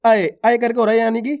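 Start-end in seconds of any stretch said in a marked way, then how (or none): 0.0-0.3 अय said firmly as one "ai" glide; stressed ऐ vowel. Shown as a demonstration. Teacher models the vowel for pupils, stressed अय. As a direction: put some force into अय. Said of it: "थोड़ा जोर लग रहा है".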